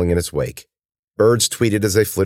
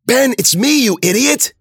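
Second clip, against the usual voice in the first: high, loud scolding; irritated, urgent yell; exasperated shout; 5 dB louder than usual. A narrator's reading. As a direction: snap him out of panic. Cuts through his panicked screaming.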